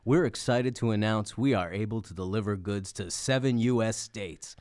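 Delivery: measured commercial announcer delivery; mock ad read. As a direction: read it as an earnest sponsor spot.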